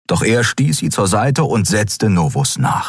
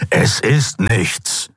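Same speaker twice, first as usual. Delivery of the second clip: hissed; 4 semitones higher, much slower than usual. A narrator's reading. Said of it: "fauchte der Skria".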